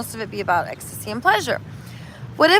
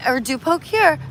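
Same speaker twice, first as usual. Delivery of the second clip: patient dad showing how; lightly voiced instructing father; teaching dad; 4 semitones higher than usual. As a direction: coach the child gently. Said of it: "the dad shows him".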